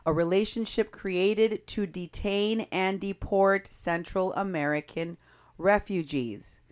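slow, weighted reading of "detain and deport Central American refugees"; pointed emphasis. Shown as a demonstration. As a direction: set "detain" and "deport" apart, slowly and deliberately. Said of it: "Notice the emphasis".

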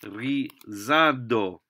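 rizado said very slowly, each syllable clear; slow model word. Shown as a demonstration. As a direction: spell out rizado aloud.

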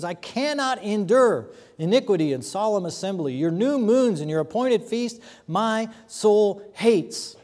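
forceful preaching read of God's words, easing off at the end; dramatic scripture reading. Acted. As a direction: proclaim it as God speaking, then fade. Reads God's words in Isaiah.

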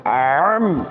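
আম with a squeezed throat, deep Arabic ain; আম said as عم, throaty ain, not a plain a; pressed throat sound. Shown as a demonstration. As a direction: tighten the throat and push আম out from deep down. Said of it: "কণ্ঠনালীটাকে একটু চাপ দিয়ে পড়ি".

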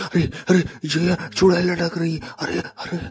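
real fright. Real, not acted. Sees a hanging witch.

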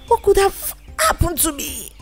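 lightly acted high, plaintive question; lightly voiced distressed thought; distressed vulture's thought. Hurt vulture thinking aloud in distress.

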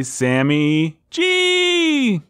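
slow, high, drawn-out moan; ghostly voice. Acted. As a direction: moan the name. Spooky donor name call-out.

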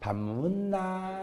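soft, very slow coaxing with a laugh; sweet to bar girl. Retold or imitated. Same husband sweetly asking the bar woman, soft, slow and laughing. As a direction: coo it softly, all charm. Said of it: "술집 여자".

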